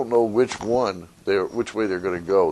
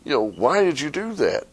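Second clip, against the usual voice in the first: frog voice; 7 semitones higher than usual. Retold or imitated. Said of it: "He said".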